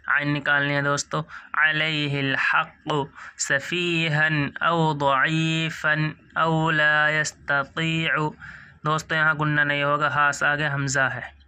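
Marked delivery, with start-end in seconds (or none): 1.5-8.3 slow chanted tajweed; recitation. Shown as a demonstration. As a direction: recite with care. Continues recitation.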